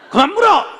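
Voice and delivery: high, loud laughing "stop asking" shout; mock angry yell. Husband fed up with questions, hammed-up high shout. Husband yelling in acted quarrel.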